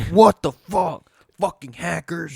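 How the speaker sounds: high, loud mock tantrum voice; raging kid. Picturing the kid raging alone in his room, loud and high. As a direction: blow up like a kid losing a match. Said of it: "bashing his head against the wall".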